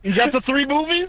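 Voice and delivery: high loud disbelief; surprised. Real, not acted. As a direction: ask it in total disbelief. Shocked question.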